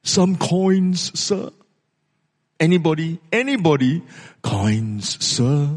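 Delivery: lightly acted begging; hopeful beggar. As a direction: call to passers-by for coins, then fade. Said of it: "hoping to receive something".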